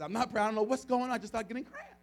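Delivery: high-pitched, imitated distress; worked-up, bewildered complaint; distressed protest. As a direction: act out a woman baffled by her pain. Woman in pain protests, retold.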